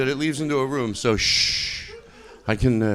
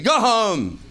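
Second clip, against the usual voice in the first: higher-pitched mock dismissal; mock exasperation; 5 semitones higher than usual. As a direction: send them packing, playfully exasperated. Acted heckle at chatty customers.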